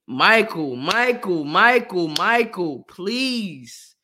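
loud repeated calling of a name; loud pleading call. Real, not acted. Calling out to Michael.

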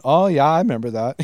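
put-on mild Fargo-style accent; Minnesota accent. Minnesotan catches herself talking like Fargo, mild local accent. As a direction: slip lightly into Minnesotan rounded vowels. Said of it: "we do talk like that a little bit".

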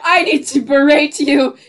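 entitled customer. Pretend. Impersonating rude customer, laughing.

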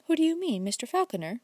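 teasing, coy question with the pitch jumping up on "Who"; provoking. A narrator's reading. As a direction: toss it off with a provoking little smile. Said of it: "with a provoking smile".

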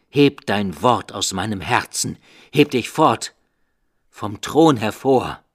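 loud, high furious cry; shouting. A narrator's reading. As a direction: drive the raven off in rage. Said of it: "Schrie ich auf".

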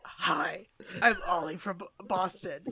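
imitating a friend's Boston cop voice; mock Boston accent. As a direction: tease him with his own Boston accent. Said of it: "it's much deeper than your normal voice".

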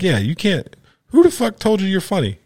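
high, scornful challenge; incredulous roast. Retold or imitated. Comic grilling the wannabe, scornful and high. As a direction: demand who ever laughed.

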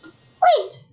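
soap-opera sobbing delivery; tearful. Acted. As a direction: melodramatic weepy plea. Sister breaks terrible news, weeping.

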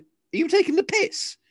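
high, loud, drawn-out mock disbelief; slow incredulous squawk at the child; comic high-pitched outrage; exasperated dad. Exasperated dad retort in acted quarrel.

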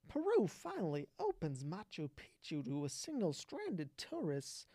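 lightly done Walken with odd emphasis, stress landing on the wrong syllables; choppy Walken cadence on "Peru finally opens Machu Picchu"; Christopher Walken impression. Streamer reading a news headline as Walken, odd stress. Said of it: "Christopher Walken, whenever he talks, puts the emphasis on the wrong syl-, syllable".

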